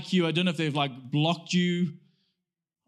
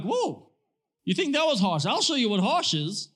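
mock-offended comeback, pitched up at first; harsh comeback; 3 semitones higher than usual. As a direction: act out a quick, challenging retort. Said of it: "can think of a comeback".

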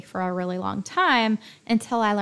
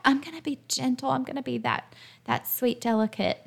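mock pep talk; 2 semitones higher, 3 dB quieter, faster than usual. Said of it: "you work yourself up and say with a pep talk".

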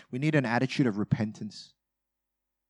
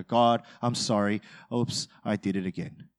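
tossed-off oops; flippant apology; 4 semitones lower than usual. Retold or imitated. Preacher mocking his own prayer, flippant. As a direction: shrug it off, no remorse. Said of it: "I go".

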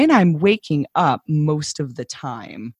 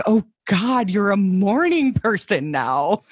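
disdainful; 3 semitones higher than usual. Retold or imitated. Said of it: "this look of kind of disdain".

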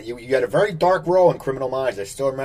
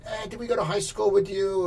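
lightly voiced nosy passerby, higher; puzzled stranger; 8 semitones higher, 3 dB quieter than usual. Host imitates a stranger stopping the actor, high puzzled voice. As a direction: raise the pitch, unsure where you know him.

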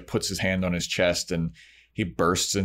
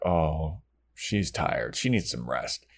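lower, softening to a gentle hush; tender concern; 4 semitones lower, 5 dB quieter, slower than usual. Retold or imitated. Onlookers over a sleeping friend, softly sympathetic. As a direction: voice sinking in mild sympathy. Watchers pity sleeping Buffy.

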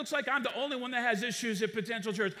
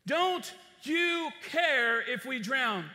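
loud, slow, drawn-out cry of fear; desperate plea; 3 semitones higher, 4 dB louder, much slower than usual. Acted. Disciples afraid of drowning begging Jesus, slow and loud. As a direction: stretch each word in a frightened plea.

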